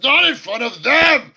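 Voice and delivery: high, loud mock-scandalized shout; lover's quarrel outburst. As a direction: cry out as if bickering in public. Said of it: "like, a lover's quarrel style thing".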